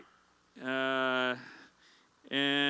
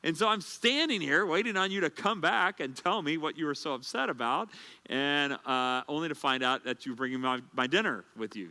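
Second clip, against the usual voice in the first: imitating upset wife; 4 semitones higher than usual. Wife scolding husband for the false alarm, mock scolding. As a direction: scold him like the rattled wife. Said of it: "She goes".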